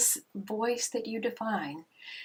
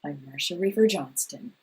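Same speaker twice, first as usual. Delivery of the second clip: stately, measured greeting, louder; formal announcer voice; 3 semitones lower, 5 dB louder than usual. Pretend. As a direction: greet like a grand host. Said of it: "Which one of those voices".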